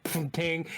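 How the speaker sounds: imitated metallic ping; mimicked clang of metal striking metal. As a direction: make a little ringing impact noise. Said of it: "it's a sound vaguely of metal on metal".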